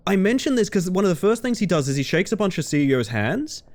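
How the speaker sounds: ordinary talk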